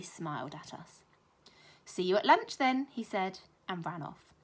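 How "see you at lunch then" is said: taunting. A narrator's reading. Bully taunting the children.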